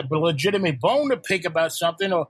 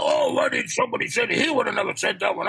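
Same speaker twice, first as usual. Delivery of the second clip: mock angry rant; 2 semitones higher than usual. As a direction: imitate a grown man getting all worked up, breathy and huffy. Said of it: "gets all mad".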